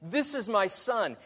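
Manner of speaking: high-pitched, acted bragging to the guests; proud father's boast. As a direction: show off your son, voice lifted high. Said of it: "he says it like this son is a self-made".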